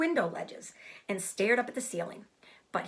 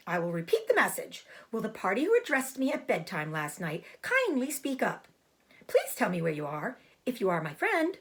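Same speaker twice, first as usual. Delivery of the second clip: firm announcement. Acted. Repeats message firmly.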